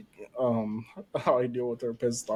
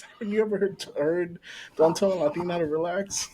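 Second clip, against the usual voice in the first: imitating wife; 6 semitones higher than usual. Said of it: "She always says".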